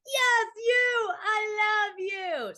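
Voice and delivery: high, loud gushing re-enactment; squealing fan's declaration, acted; excited fan. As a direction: call out adoringly, drawing the words out. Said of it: "And I was like".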